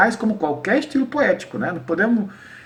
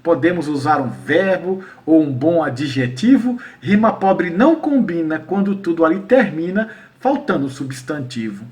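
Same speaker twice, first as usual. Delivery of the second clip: verse recitation. Shown as a demonstration. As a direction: recite the rhymed lines deliberately. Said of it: "é mais ou menos assim".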